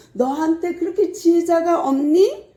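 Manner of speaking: sorrowful scolding of the church; dismayed rebuke. Retold or imitated. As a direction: scold them with heartache. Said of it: "아주 안타까운 말을 해요".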